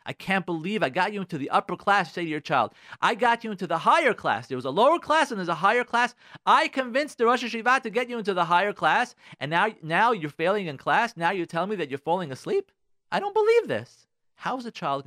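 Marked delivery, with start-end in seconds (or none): 0.0-2.1 raised, indignant scolding; resentful, upset parent. Acted. Upset parent to a child placed in the upper class, indignant. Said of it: "you're resentful and you're upset". 3.0-14.1 high, loud indignant rant; resentful, upset parent. Acted. Parent to a child failing in higher class, upset scolding. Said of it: "you're resentful and you're upset".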